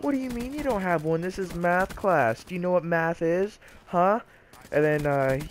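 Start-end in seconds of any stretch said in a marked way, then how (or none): 0.0-4.2 high-pitched outraged teacher rant; mock angry screaming. Math teacher scolding kid without a calculator, mock screaming. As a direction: imitate a teacher losing it, voice pitched up. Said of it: "she started screaming at him".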